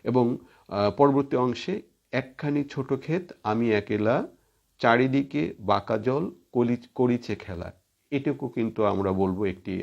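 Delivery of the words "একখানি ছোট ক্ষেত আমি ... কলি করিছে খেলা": verse read slightly raised, with pauses; poem recitation. Acted. Teacher quoting the next stanza to students, measured poem recitation. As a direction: recite the lines in measured phrases.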